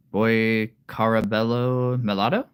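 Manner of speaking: put-on "Boy Carabello Melado" sounded out slowly, syllable by syllable; careful name attempt. Shown as a demonstration. Greeting a viewer by name, slowly sounding out "Boy Carabello Melado". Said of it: "I'm gonna try to say your name correctly".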